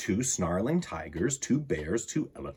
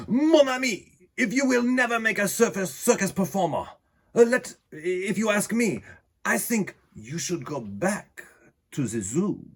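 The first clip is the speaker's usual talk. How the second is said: exasperated ringmaster; 8 semitones higher than usual. A narrator's reading. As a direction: chide him like a fussy trainer. Tambour gives up.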